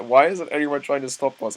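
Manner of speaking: playing Eren's thought with a put-on voice; Eren's inner voice. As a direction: act out Eren wondering aloud, amused. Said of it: "This is Eren thinking this".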